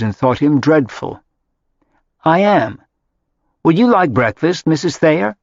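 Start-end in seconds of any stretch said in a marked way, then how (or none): 2.2-5.4 lightly voiced kind host, higher; a gentle, welcoming offer; kindly. A narrator's reading. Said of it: "Marya asked kindly".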